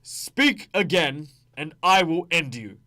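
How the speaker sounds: slow, loud, deliberate warning; menacing threat. Acted. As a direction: drag out every word as a threat. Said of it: "It could be something that lines up".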